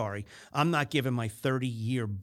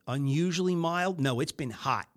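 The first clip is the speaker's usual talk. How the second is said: mock corrector; 3 semitones higher than usual. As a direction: lightly play a know-it-all correcting. Acting a corrector.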